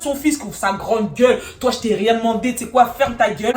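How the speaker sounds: loud insulting outburst; re-enacted heated telling-off; angry shouting. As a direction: shout them into silence. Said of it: "arrête de crier".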